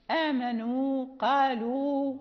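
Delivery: آمنوا and قالوا slow, each ending in a held oo; silent final alif. Shown as a demonstration. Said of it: "هذه الألف لا ننطق بها".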